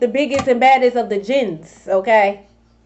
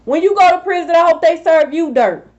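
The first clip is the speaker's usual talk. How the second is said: raised, forceful repeat of the wish; emphatic repeat; 5 semitones higher than usual. Real, not acted. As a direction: say it again with more bite. Repeats the curse, more forcefully.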